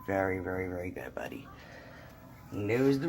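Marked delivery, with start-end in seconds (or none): 0.0-1.5 whispered praise to the dog; soft praise. Real, not acted. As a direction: coo it softly to a pet.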